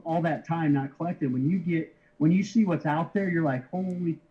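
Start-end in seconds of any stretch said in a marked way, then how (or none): 3.7-4.2 slow, slightly higher mock awe; retold amazement. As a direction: draw it out as if recalling astonishment. Retold amazement at seeing cards.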